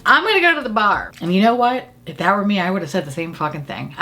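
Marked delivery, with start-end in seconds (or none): 0.1-1.1 bold. Retold or imitated. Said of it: "looks at her boldly and says".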